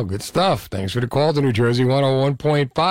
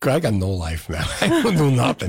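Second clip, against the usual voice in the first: laughing; 3 semitones lower than usual. Real, not acted. Joking self-deprecation while laughing.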